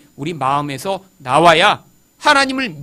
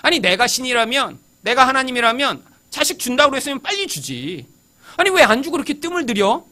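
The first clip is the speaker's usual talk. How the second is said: indignant, higher-pitched protest; disgruntled grumbling; 4 semitones higher than usual. Acted. Preacher voicing Abraham's unspoken thoughts toward God, disgruntled. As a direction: voice Abraham's exasperated inner complaint. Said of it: "못마땅한 거예요".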